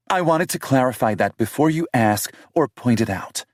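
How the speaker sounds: defensive British woman voiced high; heroine's voice. Heroine's lines, voiced higher.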